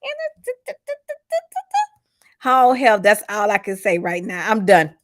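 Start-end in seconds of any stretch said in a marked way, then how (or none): 0.0-2.1 very soft stuttering, syllables repeated; Sandra. Retold or imitated. Host turning into the character in old age, hushed stammering impression. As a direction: slip back into the halting TV-character stammer. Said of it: "Imma turn to Sandra in my old age".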